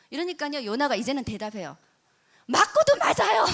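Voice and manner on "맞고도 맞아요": high loud retort, talking back to God; defiant talk-back. Retold or imitated. Jonah talking back to God, loud defiant retort. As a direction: snap back like a sulky prophet. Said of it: "이렇게 대드는 거예요".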